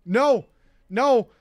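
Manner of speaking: insisting, getting worked up; exasperated refusal. Retold or imitated. Narrator refusing Raven's request to come over, exasperated.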